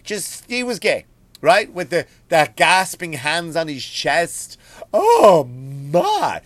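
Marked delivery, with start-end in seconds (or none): 4.9-6.4 shocked Southern belle. Retold or imitated. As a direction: gasp it like a scandalized belle. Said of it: "Like a Southern belle".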